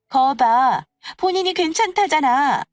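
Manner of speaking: high, loud triumphant retort; insistent told-you-so; smug vindication. Acted. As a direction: throw it back in their faces. Rival feels vindicated, retorts.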